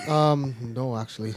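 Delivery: deflated admission that drops away; disappointed. Real, not acted. Answering whether he went topless, disappointed. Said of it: "You sound disappointed".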